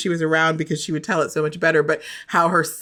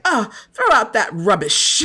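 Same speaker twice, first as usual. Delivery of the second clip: lightly imitated British accent; mock British accent; 3 semitones higher than usual. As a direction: pretend to be a kid talking British. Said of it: "in British accents".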